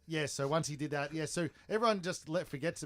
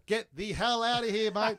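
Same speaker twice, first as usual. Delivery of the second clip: building to a loud, raised order; imitated stern warning; 8 semitones higher, 7 dB louder than usual. Cop warning an Aussie in Mexico, retold as loud order. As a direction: act out a cop ordering someone off.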